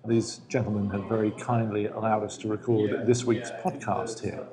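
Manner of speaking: measured, formal broadcast delivery; BBC newscaster. Acted. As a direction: read it like a BBC news announcer. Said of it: "You actually sound like a B B C newscaster".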